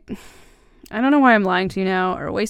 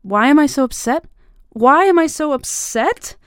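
near-yelling in hurt disbelief; upset outburst; 8 semitones higher, 9 dB louder than usual. Acted. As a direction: fling the question back at him.

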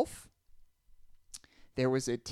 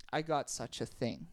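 whisper; 3 semitones lower, 6 dB quieter than usual. Acted. Sorcerer whispers a secret.

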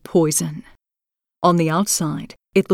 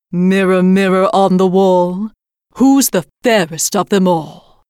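commanding queen; 4 dB louder than usual. A narrator's reading. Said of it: "she asked the mirror".

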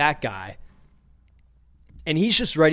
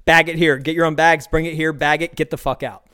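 mock drill sergeant barking orders; hammed-up drill sergeant cashier; 3 dB louder than usual. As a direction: bark the bagging commands like a drill sergeant. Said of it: "drill sergeant activity at Aldi".

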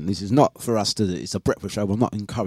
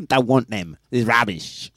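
put-on dismissive refusal in a made-up accent; Maureen's fictitious accent. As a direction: wave it away in a mock accent. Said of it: "her accent is this".

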